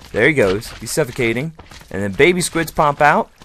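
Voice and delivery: ordinary delivery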